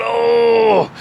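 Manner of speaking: mock straining "oh", drawn out; strained groan. Wrestler squeezing to hold it in, mock strained groan. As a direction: imitate someone straining to hold it in. Acting out man squeezing cheeks.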